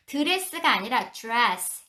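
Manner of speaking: 드레스 first hard d, then 드레스 with a j-like dr; dress, wrong then right. Shown as a demonstration. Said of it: "약간 주레스처럼 들리죠". (드레스를 주레스처럼)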